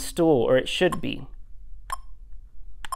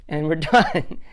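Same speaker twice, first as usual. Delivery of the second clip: laughing; slower than usual. Real, not acted. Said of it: "Sorry, I can't help myself".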